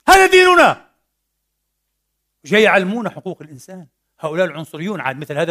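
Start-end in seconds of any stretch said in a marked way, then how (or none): 0.1-0.9 high, loud ringing declaration; fervent proclamation. Real, not acted. Preacher to the congregation, proclaiming loudly. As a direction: proclaim it with full force to the congregation.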